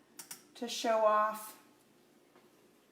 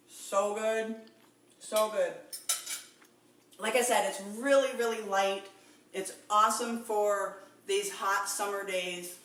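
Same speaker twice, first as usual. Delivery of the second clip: talking while chewing; words round a bite of food; mouth full. Real, not acted. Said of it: "I'm gonna stop talking with my mouth full".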